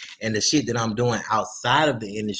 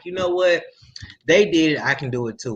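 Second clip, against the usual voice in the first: voicing an emboldened young artist, pitched up; newfound confidence; 5 semitones higher than usual. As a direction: imitate someone realizing they can do it too. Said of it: "that's giving them the confidence to be like".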